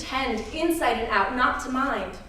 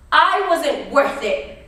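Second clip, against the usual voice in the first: raised, slow, loud declaration; emphatic climax; 3 semitones higher, 5 dB louder, slower than usual. Retold or imitated. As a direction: ring it out slowly above the din. Climax of the recounted attack.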